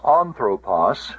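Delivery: anthropos with the stress on "an", the first syllable. Shown as a demonstration. Teacher showing students the noun's accent, anthropos stressed on first syllable. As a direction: hit the opening syllable of anthropos. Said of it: "the accent is on the on".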